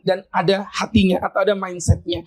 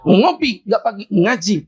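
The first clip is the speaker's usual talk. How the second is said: slow slogan; slower than usual. Shown as a demonstration. Reads out the slogan sign.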